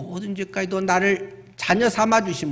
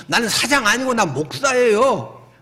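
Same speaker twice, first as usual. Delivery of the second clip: higher, mildly indignant correction; put-on protest, pitched up; mock protest; 5 semitones higher, 4 dB louder than usual. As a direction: play at objecting to the wrong title. Acted protest to waiter's greeting.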